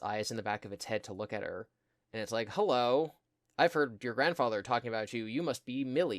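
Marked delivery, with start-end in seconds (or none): 2.5-6.2 a hint of a showy robot bear, louder; lightly voiced animatronic. Animatronic bear to the girl hiding inside it, showy greeting. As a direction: greet her loudly, lightly in character.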